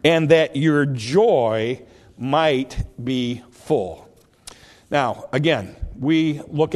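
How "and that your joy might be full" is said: slow, deliberate Bible reading, projected firmly; scripture reading. A narrator's reading. Preacher reads Jesus' words to the congregation, slow scripture reading. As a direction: read the verse out with measured weight.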